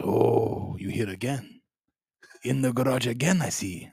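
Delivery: lightly voiced Emperor Chang with a put-on Asian accent; mock Asian accent. Buddy voicing his stuffed gorilla, light mock Asian accent. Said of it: "the Harambe sounds kinda Asian".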